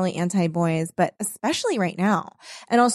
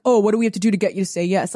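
fast mock pestering; much faster than usual. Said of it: "And they were like".

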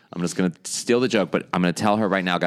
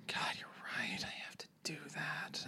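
breathy whisper, no voice; whispered wife; 7 semitones higher, 19 dB quieter than usual. Retold or imitated. Cohost voicing the wife agreeing in a whisper. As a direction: whisper it as if confessing. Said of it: "she's all like".

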